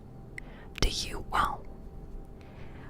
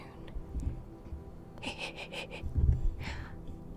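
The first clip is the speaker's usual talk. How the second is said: breathy whispered giggle; odd whispered laugh. Real, not acted. Laughing at own whispered joke in a breathy giggle. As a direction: let out a strange little whispered laugh. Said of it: "I don't know why I laugh like that".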